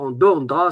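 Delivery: "en do, en dra" clipped after a heavy first syllable; swallowed stress. Shown as a demonstration. Teacher showing the garbled "en do, en dra". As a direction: mimic the unclear "en do, en dra". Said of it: "on ne comprend rien".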